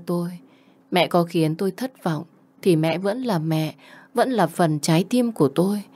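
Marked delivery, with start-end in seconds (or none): none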